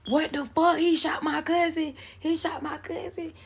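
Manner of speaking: high, loud panicked cry, then trailing off; a cousin reeling in shock; panicked yell. Retold or imitated. Dwight panicking as he sees his cousin shot, high frantic yell. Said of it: "So he was like".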